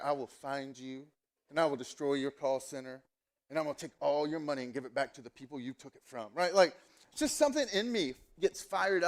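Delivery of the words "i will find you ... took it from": lightly acted low-key movie menace; a quieter, controlled vow of revenge; Taken-style threat. Preacher playing avenger to scam callers, a hint of Taken. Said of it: "I wanna go full Taken on these people".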